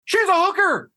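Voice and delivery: high, loud retort; high loud indignant retort; indignant outburst. Retold or imitated. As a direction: fire it back in outrage. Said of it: "I went".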